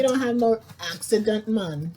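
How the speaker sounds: playful fake Jamaican accent; lightly hammed-up Jamaican accent; put-on Jamaican accent. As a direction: kick in with a mock Jamaican accent. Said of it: "kick in with the accent".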